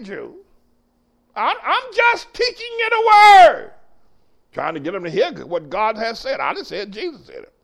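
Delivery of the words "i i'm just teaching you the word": sudden high shout of conviction. Real, not acted. Preacher to congregation insisting he only teaches, shouting. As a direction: cry it out to the pews.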